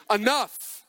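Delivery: final warning. Retold or imitated. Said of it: "And then you transition to".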